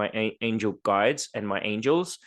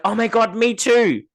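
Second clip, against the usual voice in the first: much higher, louder gushing mock squeal; excited imitating; 11 semitones higher, 4 dB louder, slower than usual. Retelling people who share her secret, high gushing excitement. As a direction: squeal like a delighted fellow witch. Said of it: "people are like".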